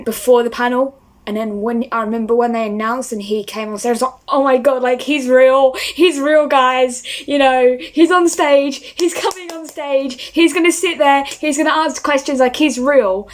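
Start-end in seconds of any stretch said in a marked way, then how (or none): 4.3-13.3 higher, louder giddy disbelief; starstruck excitement. Retold or imitated. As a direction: gush like you can't believe he's real. Starstruck fan reliving seeing him.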